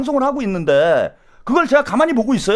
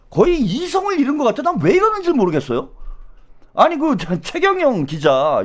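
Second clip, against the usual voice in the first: usual speaking voice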